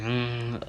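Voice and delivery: odd little closed-mouth hum; imitated whale noise. Student imitating the huffy teacher, weird whale-like hum. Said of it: "like a weird whale noise".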